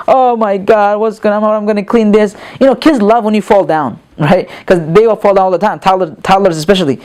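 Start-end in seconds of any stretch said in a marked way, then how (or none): 0.1-2.4 playful mock wail, barely tearful; fake crying. Parent facing child's mess, playfully fake crying. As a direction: whine it out as a pretend cry. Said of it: "you start to fake cry".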